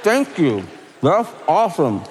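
lightly voiced guest at the table, quick and casual; a hint of an awed diner; mock surprised eater. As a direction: play a delighted guest tasting the food. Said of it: "you're like".

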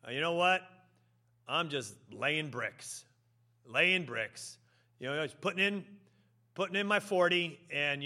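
lightly acted weary shrug of a voice; can't-be-bothered worker, just here for pay; oy-gavoy attitude. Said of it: "has a "Oy gavoy," uh, uh, attitude".

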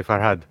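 "Farhad" with the proper second vowel; correct pronunciation. Shown as a demonstration. Co-host correcting the host on a name, careful pronunciation. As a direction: demonstrate how "Farhad" should be said. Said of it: "you gotta say".

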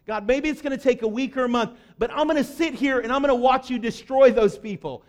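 acting out an obstinate, mad prophet; acted indignation. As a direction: dig in and defy, mildly hammed-up. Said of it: "Jonah gets so mad".

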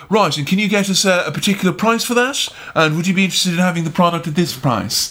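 imitated British business voice, brisk; fake British accent. Contestant out there doing deals, fake British accent. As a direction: put on a quick British accent to close deals. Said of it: "a fake British accent to hide her Irishness".

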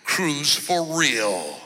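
low, smooth radio ad announcer; infomercial. Retold or imitated. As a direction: sell it like a radio ad. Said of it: "the ad you hear on the radio".

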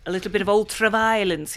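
Clockwork Orange quote. Pretend. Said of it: "he's trying to do Malcolm McDowell".

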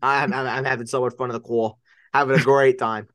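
put-on Long Island accent. Co-host answering a tease about fun, Long Island accent. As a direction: keep the New York accent going. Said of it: "your Long Island accent".

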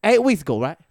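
very high, loud rapper impression. Retelling a rapper's gun video, high and loud. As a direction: rush the boast in a high, raspy voice. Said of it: "a rapper making gun sounds".

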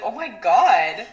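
drawn-out, mock-upset retelling. Retelling a teammate's reaction to the gossip, slow mock upset. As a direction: imitate someone upset, stretching the words slowly. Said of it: "gets upset about it and is like".

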